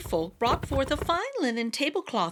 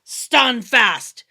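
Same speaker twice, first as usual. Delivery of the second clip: much louder call down; 11 dB louder than usual. A narrator's reading. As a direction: call down into the hollow. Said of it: "Tim called down".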